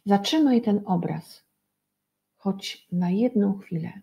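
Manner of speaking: put-on gentle sing-song poem recital for children; storybook poem voice; poem reading. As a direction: read the spring poem as if for little ones. Reads a spring poem to children.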